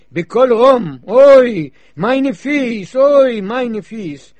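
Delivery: loud lamenting wail, drawn out at the end; loud oy-vey lament, slowing on the last cry. Acted. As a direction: cry out over lost feet like a grieving villager. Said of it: "es ungeheuer zu schreien".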